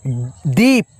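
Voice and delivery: दीप with the long ई stretched and pitched low; दीप said slowly, the ई held long; drawn-out vowel. Shown as a demonstration. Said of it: "इसमें उच्चारण खींचता हुआ है".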